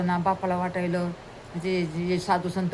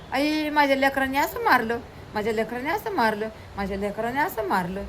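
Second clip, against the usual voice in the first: high amazed exclaim fading away; amazed mother; 4 semitones higher than usual. Acted. Mother watching from the window, high and amazed. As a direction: marvel at the children, then let it fade. Mother marvels at her sons.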